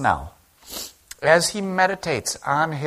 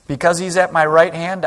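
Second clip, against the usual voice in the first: proclaiming; 5 semitones higher, 9 dB louder than usual. Acted. Psalm quote proclaimed again.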